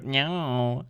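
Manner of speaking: soft "No" bent into an Australian "nyo"; imitated Australian "no". Viewer testing the Australian no, soft imitated "nyo". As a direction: mimic the Australian "No" as "nyo", softly. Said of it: "pronounce no as nyo".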